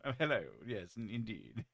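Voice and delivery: lightly hammed-up British accent; mock British accent. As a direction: caricature of British politeness. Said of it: "all British people sound".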